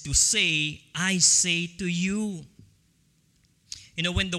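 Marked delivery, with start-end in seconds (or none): 0.9-2.5 slow, firm "I say to you", weight on "I"; command and confidence. Acted. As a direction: speak with total authority. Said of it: "with such command and confidence".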